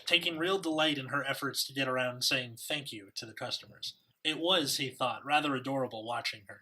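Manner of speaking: put-on reading with a British accent. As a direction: read it like an English gentleman. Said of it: "I can either speak in a British accent".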